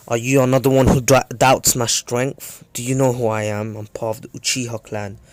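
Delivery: mildly indignant challenge, loud at first; tempered Sasuke. Retold or imitated. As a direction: voice a proud, touchy fighter, easing off by the end. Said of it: "Sasuke is the more tempered one".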